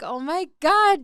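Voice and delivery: mock excitement. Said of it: "always like".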